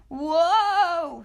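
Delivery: startled high yelp in flight; whoa. A narrator's reading. Scapito flying into the shack, startled yelp. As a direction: cry out as he flies under the curtain. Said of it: "said Scapito as he flew".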